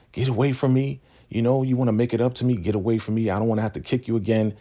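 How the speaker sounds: high-pitched, brisk imitation of fending someone off; irritated rejection. Acted rejection of a suitor.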